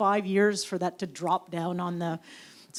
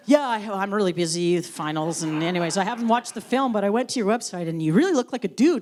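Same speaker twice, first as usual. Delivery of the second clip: mock clueless interviewer; 3 semitones higher, 5 dB louder than usual. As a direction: ham up the careless interviewer. Mocking the interviewer.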